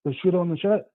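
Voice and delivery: caller on a phone line; distant phone call voice; over the phone. Real, not acted. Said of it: "you sound like you're far away".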